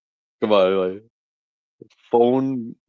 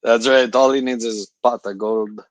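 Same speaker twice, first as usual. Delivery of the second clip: put-on a deliberately terrible Irish leprechaun accent; bad Irish accent; 6 dB louder than usual. Streamer jokes about a pot of gold in a bad Irish accent. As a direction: ham up a cheap Irish brogue, half joking. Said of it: "terrible accent there".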